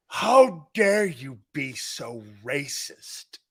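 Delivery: slow, mock-indignant outrage. Joking with Tone about the mugshot, slow mock outrage. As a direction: ham up being insulted, dragging it out.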